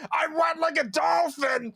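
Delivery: high, slow Irish scream; Irish accent shout. Retold or imitated. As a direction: yell it in a mock Irish fighter voice. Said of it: "just screaming shit like this".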